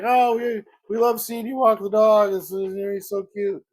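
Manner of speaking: imitating gushing neighbors, high-pitched; excited neighbors. Neighbors fawning over his dog on a walk, excited. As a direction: play a delighted dog admirer, voice lifted high. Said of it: "are very excited to see Winston".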